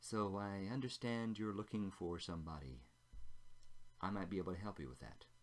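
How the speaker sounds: hushed, somewhat conspiratorial, confiding tone. Narrating a woman speaking to Anselm after getting her drink, somewhat conspiratorial tone. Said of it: "in a somewhat conspiratorial tone".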